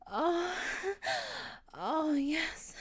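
building to climax. Acted.

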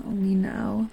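ordinary delivery

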